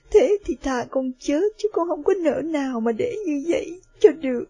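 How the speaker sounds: tearful daughter clinging to her mother; crying daughter. Acted. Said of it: "và khóc và nói".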